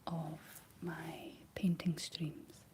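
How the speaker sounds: breathy ASMR stream whisper. Real, not acted. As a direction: whisper gently to a sleepy audience. ASMR painting stream whispered throughout.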